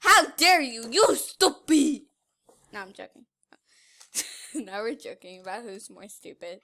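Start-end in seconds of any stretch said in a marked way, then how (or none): 0.0-2.0 mock outrage. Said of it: "He called me stupid".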